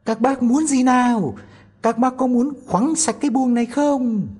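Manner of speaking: very high, loud tiny voice, pushing harder. A narrator's reading. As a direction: shout it out deliberately to wake the house. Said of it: "lại lớn tiếng hỏi".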